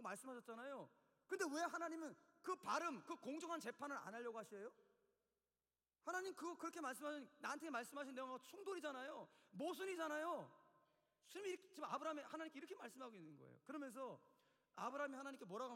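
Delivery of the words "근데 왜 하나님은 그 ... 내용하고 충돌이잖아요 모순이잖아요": mildly raised acted protest; arguing, challenging. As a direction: argue the contradiction with God. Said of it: "막 따지기 시작하는 거예요". (살짝 높여 따지는 말투)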